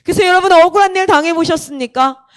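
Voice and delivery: lightly imitated preacher addressing the room; a hint of pulpit projection; pastor's appeal. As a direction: put each question earnestly to the congregation. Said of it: "막 이런 얘기를 하는 거예요".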